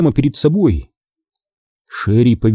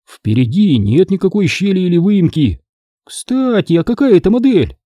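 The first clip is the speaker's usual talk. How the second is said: put-on higher girl's voice, curious; Sherry, curious; 7 semitones higher than usual. Sherry asks Greg about the camera, higher and curious. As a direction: voice Sherry, a curious teen girl.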